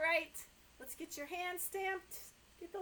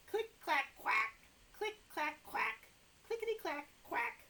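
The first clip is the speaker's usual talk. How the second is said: sing-song refrain; 2 semitones higher than usual. Acted. Librarian chanting the typewriter refrain to kids. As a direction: bounce the sounds, build up.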